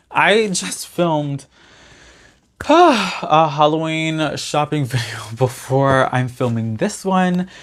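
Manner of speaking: slow, breathy, still winded; out of breath. Real, not acted. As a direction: push words out while catching breath. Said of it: "I'm out of breath".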